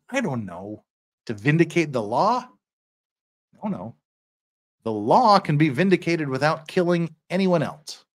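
deliberate oratory with pauses; courtroom plea read aloud. Acted. Defender answering the state's counsel, deliberate oratory. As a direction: argue it out before the judge.

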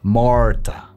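Marta with a subtle throaty R; English R in Marta. Shown as a demonstration. Coach models the English name, "Marta" with throaty R. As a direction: soften the R of "Marta" back into the throat. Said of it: "las R's en inglés son mucho más sutiles".

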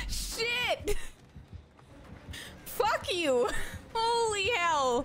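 jolted by a jump scare; startled panic. Real, not acted.

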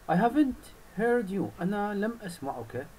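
butter up the bird; flattering fox. Acted. (الثعلب يتملق الطير بصوت عالٍ)

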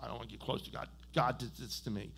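low, soft mock grumble; imitated withdrawn believer. Preacher voicing people isolated from God, withdrawn. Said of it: "They go".

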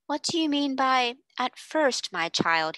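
kind, slow fatherly questioning; encouraging. Acted. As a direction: gently coax the child to answer. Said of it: "nice, encouraging voice".

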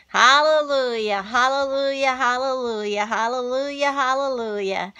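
praise, starting loud and settling down; fervent hallelujahs. Real, not acted. Praising God for her viewers, loud hallelujah fading to calm.

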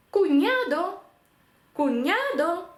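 кунядо high and loud with ñ; Spanish cuñado. Shown as a demonstration. Teacher models кунядо for learners. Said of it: "подивимось на приклади".

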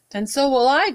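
lightly croaked defiance; croaking frog. Acted. Frog answers the owner, lightly croaked reply. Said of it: "croaked the frog".

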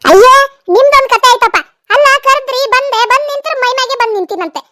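mock yelling wife. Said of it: "ಅದ್ಯಾಕ್ ಹಂಗ್ ಚೀರಾಕತ್ತಿ".

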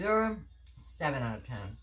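eating a cookie; talking while chewing. Real, not acted. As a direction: mouth partly full. Seen 1: hoodie speaker holds cookie at lips while talking, likely chewing.

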